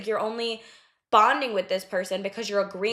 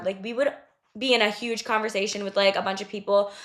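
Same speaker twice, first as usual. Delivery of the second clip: ordinary talk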